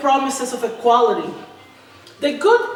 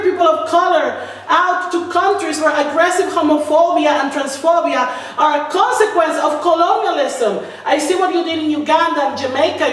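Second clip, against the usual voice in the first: rising anger; 3 semitones higher than usual. Acted. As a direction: let the indignation swell into a cry. Building protest against Swedish injustice.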